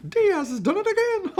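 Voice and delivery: very high, loud squeal of joy; Mickey Mouse squeal. Real, not acted. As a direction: shriek it like Mickey Mouse in delight. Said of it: "I sounded like Mickey Mouse".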